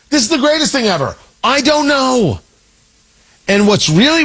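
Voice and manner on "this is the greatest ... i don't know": mock thrilled. Mocking pundit certainty flip.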